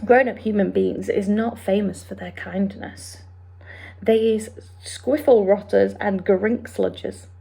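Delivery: quick, lightly voiced friendly giant; BFG voice. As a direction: explain it like the big friendly giant. BFG speech.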